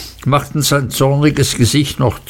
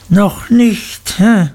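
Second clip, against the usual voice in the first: mocking repeat; 10 semitones higher, slower than usual. A narrator's reading. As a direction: throw the boy's words back at him cruelly. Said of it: "wiederholte Mister Creakle".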